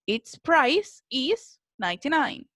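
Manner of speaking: "Its price is ninety-nine" said slowly with a rise on "price"; careful teacher model of the sentence; slow modelling voice. Shown as a demonstration. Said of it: "Si se fijan acá ocupamos el its".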